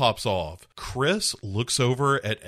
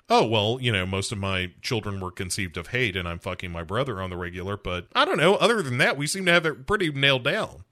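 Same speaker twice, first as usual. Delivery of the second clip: mock breezy wife; faster than usual. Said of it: "she's like".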